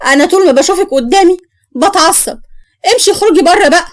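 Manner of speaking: wife ordering her mother-in-law out again, angry. Acted. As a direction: drive her out of the house.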